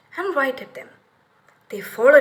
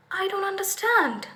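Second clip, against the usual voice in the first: put-on innocent girl; 7 semitones higher than usual. A narrator's reading. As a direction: play dumb like a little girl. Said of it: "Gretel said".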